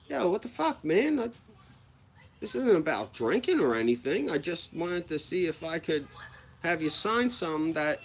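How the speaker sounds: can't believe what's happening; indignant disbelief. Retold or imitated. Fan protesting to the mascot, high and indignant. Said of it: "I was like".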